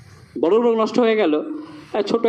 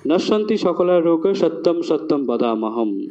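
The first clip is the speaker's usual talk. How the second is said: sanskrit verse recitation; 3 semitones lower than usual. Shown as a demonstration. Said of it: "ধন্বন্তরীজি বলছেন যে".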